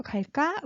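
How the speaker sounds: questioning rise on 갈까. Shown as a demonstration. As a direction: ask 갈까, lifting the second syllable. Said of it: "raise your, your pitch".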